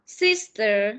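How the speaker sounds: sister said slowly and clearly; slow model word. Shown as a demonstration. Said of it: "Nào, nhìn này". (đọc "sister" chậm, rõ từng âm)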